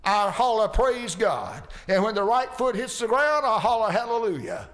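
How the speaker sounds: lightly voiced jubilant old miner; a hint of a shouting happy miner; mock joyful Billy Bray. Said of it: "Billy'd say something like this".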